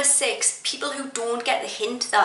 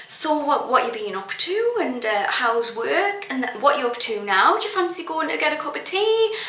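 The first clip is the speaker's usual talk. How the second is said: mildly imitating a chatty acquaintance; string the questions along, pitch climbing at the end; put-on friendly chit-chat, lightly done; lightly mocked small talk; 4 semitones higher than usual. Acted quote of nosy chatty acquaintance.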